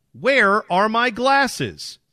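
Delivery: high, very slow drowsy dog; slow, sleepy storybook character. Acted.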